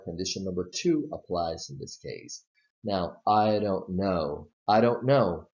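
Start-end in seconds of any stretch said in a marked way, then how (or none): 3.3-4.5 I don't know said slowly, each word separate; slow careful demo. Shown as a demonstration. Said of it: "want to emphasize that you really". 4.7-5.5 I don't know with know louder and don't light; stress on know. Shown as a demonstration. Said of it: "You just stress, uh, no more strongly".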